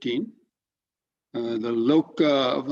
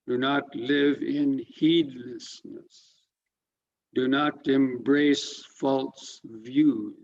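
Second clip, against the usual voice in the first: slow, measured scripture recitation; solemn, spaced-out delivery of a translated verse; verse reading; 3 semitones higher, much slower than usual. Real, not acted. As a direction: read each precept deliberately, letting every line fall. Reads the verse's English translation.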